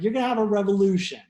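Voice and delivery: loud, fast mock disbelief; hammed-up incredulous official. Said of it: "The government's like".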